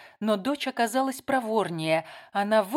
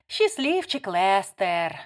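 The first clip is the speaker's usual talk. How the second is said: slow mocking drawl; drawn out; 4 dB louder, slower than usual. A narrator's reading. Layla sneers at Lester's assistant, drawling slowly. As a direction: stretch each word out with scorn. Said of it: "протянула Лайла".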